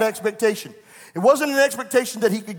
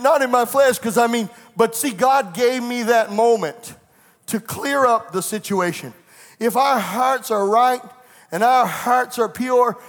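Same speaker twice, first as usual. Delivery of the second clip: full-force preaching. Acted. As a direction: drive it home to the congregation.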